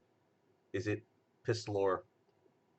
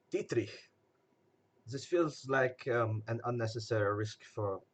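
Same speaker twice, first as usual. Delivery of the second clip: put-on quasi French accent. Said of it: "I keep dropping into quasi French".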